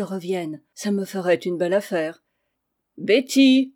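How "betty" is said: higher, louder sour call; voix aigre. A narrator's reading. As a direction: call out sharply for the servant. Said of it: "cria la cousine d'une voix aigre". (appel criard, d'une voix aigre)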